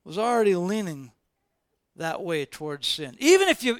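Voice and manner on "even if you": emphatic refusal. Retold or imitated. Balaam refusing again.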